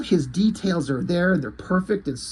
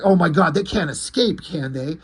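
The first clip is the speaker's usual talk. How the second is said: mock panic. Military guy reacting to the talking dog, mock panic. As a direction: retell it with a touch of panic. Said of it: "he's instantly freaking out".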